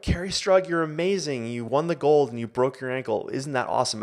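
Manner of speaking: lightly hammed-up adoring crowd; gushing fan. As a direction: play a starry-eyed fan gushing at her. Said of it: "all of America is like".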